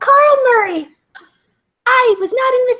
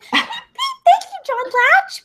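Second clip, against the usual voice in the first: cute bird peeping; 9 semitones higher than usual. Pretend. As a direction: peep like a tiny cute bird. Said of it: "weird high-pitched voice thingy".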